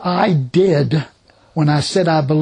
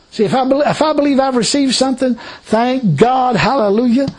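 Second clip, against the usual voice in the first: excited praise; 6 semitones higher than usual. Real, not acted.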